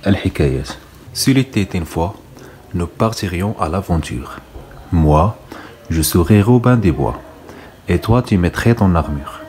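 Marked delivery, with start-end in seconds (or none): 1.1-9.4 slow, measured poem reading; poem recitation. Acted. Teacher reads the French poem to pupils, slow recitation. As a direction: read the French verse out slowly, phrase by phrase.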